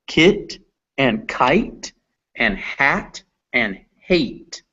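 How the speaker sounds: kit and kite, hat and hate, said slowly; teacher contrasting words without and with silent e; slow minimal pairs. Shown as a demonstration. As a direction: say each word pair slowly. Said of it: "we can see".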